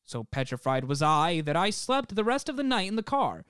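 measured reading of an eerie account; deliberate storyteller delivery; story narration. Acted. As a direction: read it like a campfire tale, lightly dramatic. Reads out a listener's account.

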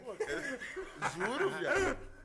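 high and loud through laughter; laughing. Real, not acted. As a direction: swear it's true while cracking up.

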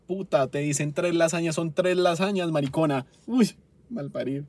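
loud, heated scolding; worked up. Real, not acted. Customer scolding waitress over three lasagnas, exasperated. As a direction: lose your temper and hammer the order home. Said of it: "Perdón, me exalté".

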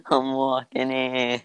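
put-on New York accent, dropped h. Shown as a demonstration. Voice actor echoing co-host, New York accent. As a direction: echo it as a New Yorker. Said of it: "I can also do New York".

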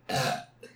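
burp. Real, not acted. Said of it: "I'm gonna burp again".

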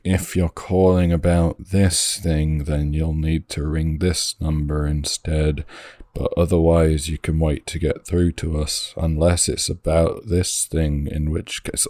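slow, droning receptionist message; talking so slowly. Retold or imitated. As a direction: drag it out like a slow recorded message. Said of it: "talking so slowly".

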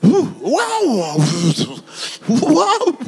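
yawning wake-up; lightly voiced just-woken Jesus; drowsy Jesus. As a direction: stretch awake unbothered. Jesus waking sleepily.

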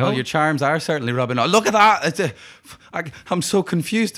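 put-on confused slide into an Irish accent; copied Irish accent. Gang member alarmed by own voice, copied Irish accent. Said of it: "you sound exactly like me".

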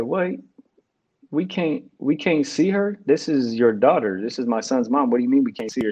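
mild, stunned protest to the chaplain; retold disbelief. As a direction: replay the moment it didn't sink in. Told his partner died.

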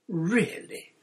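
high, disdainful exclamation; lofty. A narrator's reading. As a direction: look down on silly fans. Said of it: "said Hermione loftily".

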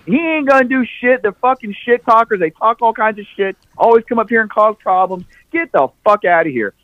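high mock cashier scoffing; a hint of the scornful cashier lady; dismissive cashier. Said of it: "she tells me".

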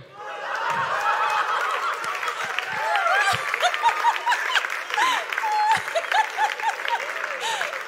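long, high burst of delighted laughter; soaring joyful laugh. Real, not acted. Pastor delighted by story.

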